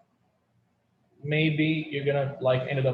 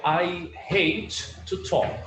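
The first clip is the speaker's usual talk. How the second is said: slow example; 2 semitones higher, much slower than usual. Shown as a demonstration. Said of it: "I could say".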